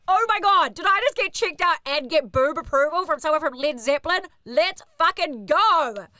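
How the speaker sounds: high, loud thrilled gush; giddy shrieking excitement; excited squeal. Retold or imitated. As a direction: squeal with delight at being checked out. Thrilled at rockstar's approval.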